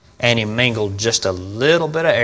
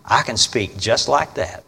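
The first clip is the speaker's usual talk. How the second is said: softer, slower, calm and even; calm quiet voice; 6 dB quieter than usual. Retold or imitated. Preacher voicing Satan to the congregation, soft and calm. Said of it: "I don't have to scream and yell".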